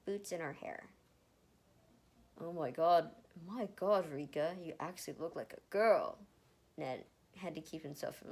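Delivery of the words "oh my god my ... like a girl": excited gasp. Acted. Ned gasping at Erica's makeover.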